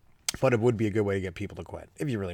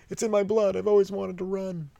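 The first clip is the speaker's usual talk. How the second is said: hammed-up passionate kid; 11 semitones higher, 5 dB louder than usual. Kid declaring passion for running.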